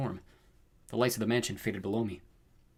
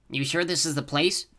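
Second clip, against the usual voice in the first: slow, higher toady voice; nervous toad creature; 6 semitones higher than usual. A narrator's reading. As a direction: ask it uneasily, drawn out. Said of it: "the toady-looking one croaked nervously".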